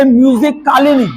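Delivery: "कालिनी" with a full, open vowel after क; wrong pronunciation. Shown as a demonstration. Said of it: "ऐसे नहीं". ("कालिनी" में क के बाद स्वर पूरा बोलकर)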